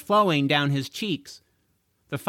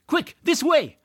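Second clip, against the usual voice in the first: loud, high call; yelled; 13 semitones higher, 4 dB louder than usual. Acted. Max calling George to escape, yelled. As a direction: shout directions from hiding. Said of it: "yelled a voice".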